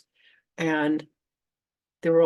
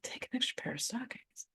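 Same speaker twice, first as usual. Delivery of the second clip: higher and much softer, a sing-song parroting; mocking echo; 6 semitones higher, 13 dB quieter than usual. Echoing the inner voice's odd order, mocking and soft. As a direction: parrot the order back with disbelief.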